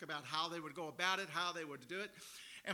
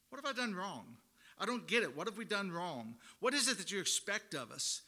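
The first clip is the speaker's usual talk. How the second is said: sarcastic complaint; 2 semitones higher than usual. Retold or imitated. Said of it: "call it sarcasm".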